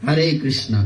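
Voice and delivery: হরে said as hare, the English way; mock the foreign hare pronunciation; imitating foreigners. Preacher imitates Bengalis copying foreigners' hare. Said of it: "তাদেরকে নকল করে".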